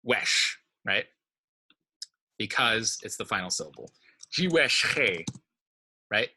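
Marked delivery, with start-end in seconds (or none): 0.0-0.6 "wesh" alone as the stressed syllable; single out "wesh", set off by a pause; stressed syllable singled out. Shown as a demonstration. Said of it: "the stress is falling on the". 4.3-5.2 "Jewish he" said "ji-WESH-khey", weight on "wesh"; stress before the suffix. Shown as a demonstration. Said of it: "right before the first noun suffix".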